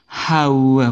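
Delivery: hawa, with the H sounded; demonstrating hawa as the mistake; wrong pronunciation. Shown as a demonstration. Teacher showing the wrong hawa, H pronounced.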